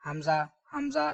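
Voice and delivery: حمزہ as a short "hamza"; common mispronunciation. Shown as a demonstration. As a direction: say حمزہ starting with an h. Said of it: "لوگ ایسے کہتے ہیں".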